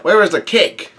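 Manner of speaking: mock shout for the cake; demanding yell. A narrator's reading. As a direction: bellow it like a greedy giant. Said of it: "Big Mom yells out".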